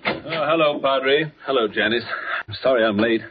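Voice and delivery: slightly winded greeting; out of breath. Acted. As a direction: arrive a little out of breath. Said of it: "You seem a good deal out of breath".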